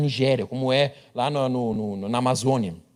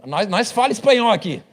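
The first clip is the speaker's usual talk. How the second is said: high, louder relieved eagerness; finally something he knows, pitched up; eager Brazilian; 8 semitones higher, 4 dB louder, slower than usual. Retold or imitated. Pastor mocks a Brazilian relieved to hear Spanish, high pitched. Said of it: "hablas espanhol".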